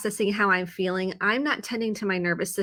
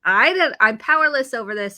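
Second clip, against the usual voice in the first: mock angry driver; 3 semitones higher, 6 dB louder than usual. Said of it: "I am so mad about all this".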